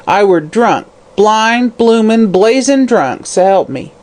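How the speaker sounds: high crone, rising with each word; drunk crone's boast. Acted. Hag boasting to the detective, rising high. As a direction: pile up the words like a boast.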